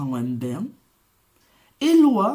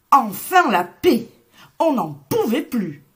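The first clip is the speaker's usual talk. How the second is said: relieved cheer; 4 semitones higher, 6 dB louder than usual. Acted. Animals relieved.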